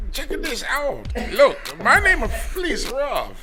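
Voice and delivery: hammed-up Asian accent as a cup buyer; mock Asian accent. Comedian on podcast playing a customer, put-on Asian accent. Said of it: "I'm gonna talk to him like that".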